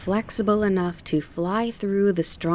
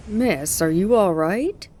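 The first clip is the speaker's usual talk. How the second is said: calling out; 2 semitones higher, 4 dB louder than usual. A narrator's reading. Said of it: "townspeople called out to her".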